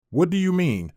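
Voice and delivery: wife puzzled by the husband's question, confused. A narrator's reading. Lightly confused ask.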